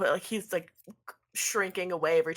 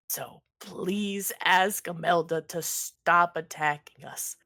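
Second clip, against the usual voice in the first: drawn-out, earnest plea; lightly voiced pleading pizza maker. Pizza maker begs Ernest to call off attacks, pleading. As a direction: beg a favor, stretching out the please.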